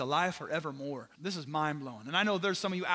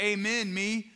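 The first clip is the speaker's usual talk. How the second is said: a louder, higher, fired-up "Amen, me"; 5 semitones higher, 5 dB louder than usual. Retold or imitated. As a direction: belt out "Amen, me" like you just can't hold it in. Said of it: "Jesus gets fired up and he's like".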